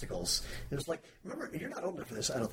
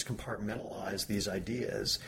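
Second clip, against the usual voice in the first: ordinary talk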